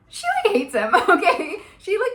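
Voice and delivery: giggling through the words; laughing. Real, not acted. Vlogger giggling about her annoyance, laughing. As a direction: laugh as you tell it.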